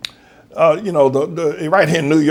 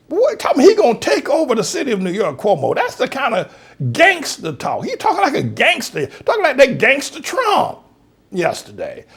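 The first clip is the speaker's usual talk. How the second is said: indignant; 8 semitones higher than usual. Real, not acted. Outraged rant at Cuomo.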